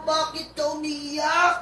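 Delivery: a lightly voiced, pleading Paul; Paul questioning. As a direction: ask them why they weep. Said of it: "Nagtanong si Pablo".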